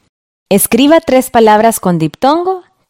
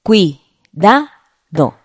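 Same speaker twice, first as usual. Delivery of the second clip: "Cuidado" very slowly as cui, da, do; teacher sounding out "Cuidado" syllable by syllable; split into syllables; much slower than usual. Shown as a demonstration. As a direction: break "Cuidado" into three beats with long pauses. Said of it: "Primero separémoslo en sílabas".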